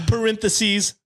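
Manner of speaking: smug, preachy internet neckbeard. Pretend. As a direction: read it like a smug forum poster. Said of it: "the neckbeard voice".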